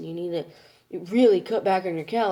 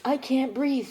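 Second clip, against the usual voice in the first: higher-pitched mimicked complaint; breathless complaint, imitated; 7 semitones higher, 3 dB louder than usual. Daughter naming mom's "can't breathe" thing, high mimicry. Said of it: "She does this".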